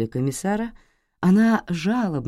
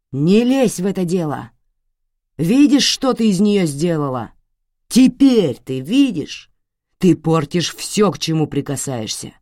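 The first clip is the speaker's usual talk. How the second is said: angry father; 3 semitones higher, 6 dB louder than usual. Acted. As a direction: drive the blame home. Father raging at daughter.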